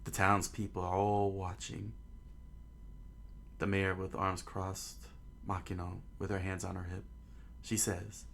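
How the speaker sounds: measured, understated storytelling voice; story narration. A narrator's reading. Narrator setting out the townspeople watching at port, measured storytelling. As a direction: read it as a storyteller setting a scene.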